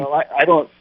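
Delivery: muffled phone line; tin can sound. Real, not acted. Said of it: "it's hard to hear you".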